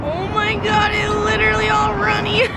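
high squeal of surprise; surprised. Real, not acted. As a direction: gasp and squeal it out. Runny egg reveal.

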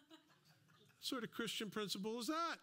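mock indignant. Indignant people in line.

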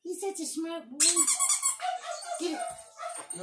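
high-pitched, fond praise for the dog. Real, not acted.

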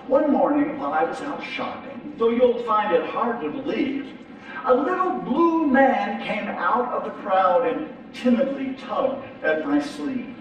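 storybook reading, lively and rhythmic; reading a children's rhyme. Acted. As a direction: read it like a nursery rhyme.

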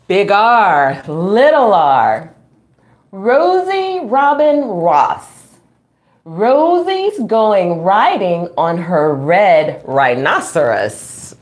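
slow, sing-song picture-book reading; reading to children. Acted. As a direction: read it out slowly for little kids. Reading ABC book aloud.

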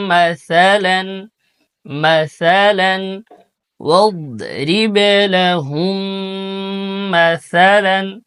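মাসালান with the সা as a soft lisped tha; soft tha sound. Shown as a demonstration. Teacher correcting the tha in মাসালান. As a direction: say মাসালান with the tongue between the teeth. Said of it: "সা নরম করে".

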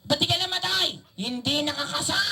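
cheeky dummy. Acted. Dummy mocking the gun trick.

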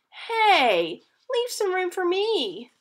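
crying out. Acted. Hannah protesting Bob took the blanket, high indignant call. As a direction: cry out at your brother. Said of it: "cried Hannah".

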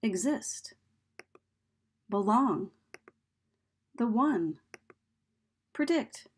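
Exist, belong, predict, each stressed on the second syllable; light first syllable, strong second, as in "Away" and "We played"; iambic stress. Shown as a demonstration. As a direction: say Exist, belong, Require, Insane as da-DUM, one by one. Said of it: "words that have an iambic rhythm".

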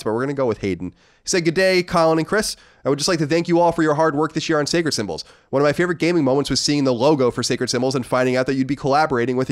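read-aloud voice, pitched a little up; reading a listener letter. Acted. Host reads a listener's letter to co-host, read-aloud voice. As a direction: read the letter out in an even presenter's cadence.

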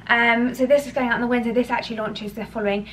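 breathless after climbing stairs; puffing from the stairs; out of breath. Real, not acted. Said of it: "I'm really out of breath".

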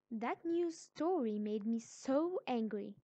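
loud, emphatic exclamation of anger; angry. Shown as a demonstration. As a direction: show anger, stressing the words forcefully. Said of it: "What if I want to express anger?".

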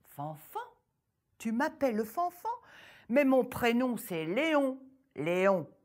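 loud, indignant mishearing peasant; deaf farmer. Acted. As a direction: protest your name loudly.

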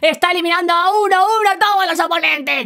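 eager caster following each move; excited play-by-play. Acted. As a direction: call the action with mounting thrill. Live play-by-play of a clip. (narración deportiva animada)

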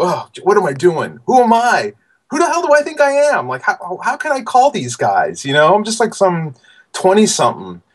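high, anxious mock panic at his own nerve; a young artist losing his nerve before the phone call; panicked self-doubt. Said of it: "I was so scared".

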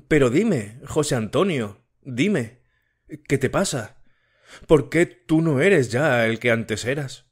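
a hint of an anxious girl pleading; Matilde voiced. Matilde pleads with José Antonio.

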